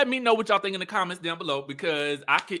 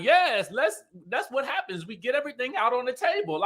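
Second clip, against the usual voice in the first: higher-pitched eager mimicry; mock enthusiasm; 7 semitones higher than usual. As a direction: imitate her sudden eager agreement. Mimicking Letitia's eager change of mind.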